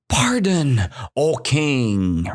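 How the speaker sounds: lightly voiced mouse begging for mercy; a hint of crying plea; mild mock sob to the king; mouse pleading. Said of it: "So the mouse cried".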